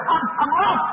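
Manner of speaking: stammered cry of a dying woman; acted panic. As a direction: stumble over the words in acted dread.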